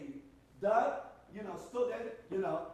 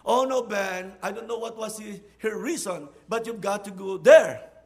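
loud insistence; 10 dB louder than usual. Retold or imitated. Friend insisting.

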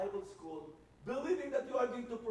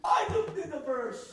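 angry insistence; 4 semitones higher, 3 dB louder than usual. Retold or imitated. Repeated rant line.

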